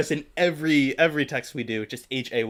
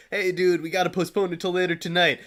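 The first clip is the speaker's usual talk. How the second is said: a lightly voiced, slightly higher take on his buddy's casual text; impression of his friend; 4 semitones higher than usual. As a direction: mimic the friend's laid-back voice, just a touch. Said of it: "That's my impression of you".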